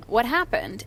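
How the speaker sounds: even, unreactive question; calm voice. Retold or imitated. Mom asks upset family what happened, calm voice. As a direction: ask it calmly, keeping your own pitch. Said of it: "in a very calm voice".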